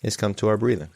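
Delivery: measured meditation guidance with long pauses; guided meditation. Real, not acted. Teacher leading an online group in calming anxiety, guided meditation. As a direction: guide them gently, leaving long silences.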